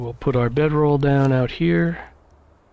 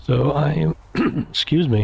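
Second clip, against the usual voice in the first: hoarse voice; 3 semitones higher than usual. Real, not acted. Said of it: "I'm losing my voice".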